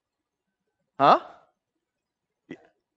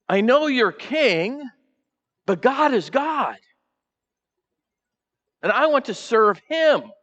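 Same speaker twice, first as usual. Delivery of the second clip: voicing Naboth; 8 semitones higher than usual. Naboth voiced refusing the king.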